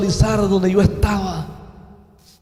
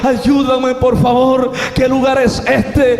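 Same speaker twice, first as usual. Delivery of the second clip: higher, urgent plea to friends; pleading cry for help; 3 semitones higher, 3 dB louder than usual. Retold or imitated. A frightened man calls to his friends for help, higher pleading cry. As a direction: beg for help, voice lifted high. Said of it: "Le gritaba a mis amigos".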